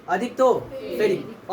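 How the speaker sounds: slow repeat. Shown as a demonstration. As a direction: say अधिक तो फेरिक again slowly so it sinks in. (धीरे और साफ़ दोहराना)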